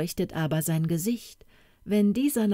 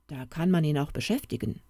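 thinking aloud; faster than usual. Acted. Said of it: "laut denkend".

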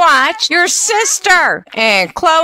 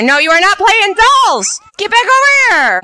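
higher, louder parent shout; scolding yell; 8 semitones higher, 3 dB louder than usual. Acted. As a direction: call the kid back sharply. Scolding sim kid playing dolls.

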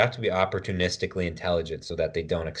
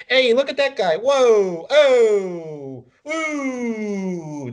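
very high, loud, hammed-up gasp of wonder; goofy amazed onlooker; 6 dB louder, much slower than usual. Clowning around at tournaments as an amazed spectator, very high and loud. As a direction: gush like a cartoon gawker. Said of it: "But the rest of the time, like".

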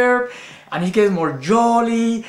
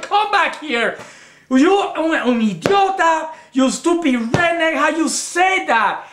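pretend yelling at Roy Ray; 5 semitones higher than usual. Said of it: "let's pretend like this is Roy Ray".

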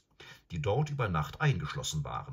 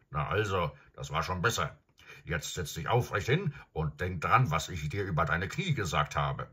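stolzes Pferd, leicht spöttisch, etwas lauter; Pferdestimme. Acted. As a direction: ein Kavalleriepferd, das über den Reiter spottet. Pferd spricht mit Shasta. (Pferd neckt Shasta beim Aufsteigen)

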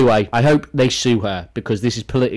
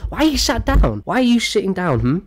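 raised, mocking question; mock pop singer; 5 semitones higher than usual. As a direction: parody her needling the seated fan. Mocking a singer's question to seated fan.

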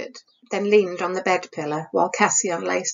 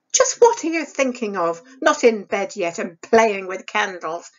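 stern, scolding stepmother, a little raised. Acted. Stepmother scolding Isabel over the candle, sharp and stern. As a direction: scold the girl like a harsh stepmother. Stepmother voiced in read story.

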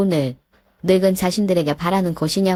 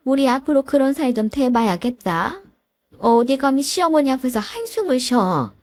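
a lightly voiced stern mother-in-law, a touch higher; 시어머니 목소리; 5 semitones higher than usual. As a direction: scold the daughter-in-law with cold authority. (살짝 높인 깐깐한 시어머니 목소리)

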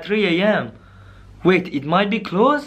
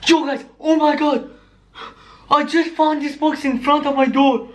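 excited shock; 4 semitones higher than usual. Acted. Acted excitement over found box.

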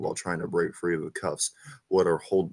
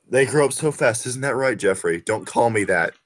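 playful voice; 5 semitones higher, 6 dB louder than usual. Acted. Bonus ending acted voices.

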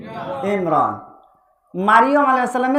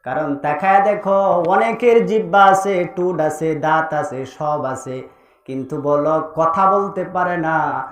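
low chanted sermon cadence; low, rhythmic preacher's chant; melodic preaching; 6 semitones lower, 3 dB quieter than usual. Real, not acted. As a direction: intone the list musically, stretching the last question.

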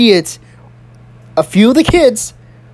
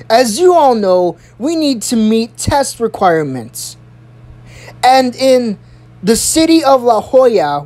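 principal's address; 3 semitones higher than usual. Retold or imitated. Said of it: "She says".

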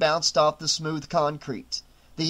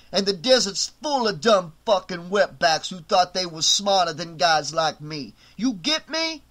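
menacing; 4 semitones higher than usual. Acted. Tony choking, threatening.

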